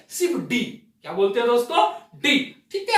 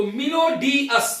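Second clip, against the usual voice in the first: slow demo; much slower than usual. Shown as a demonstration. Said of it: "क्या हो गया दोस्तों?".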